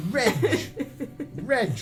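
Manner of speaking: normal talking voice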